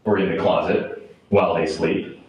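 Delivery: measured poetry reading with deliberate pauses; poem reading. Acted. Poet reads grim lines about monsters and children to an audience, solemn poem reading. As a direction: let each phrase stand between pauses.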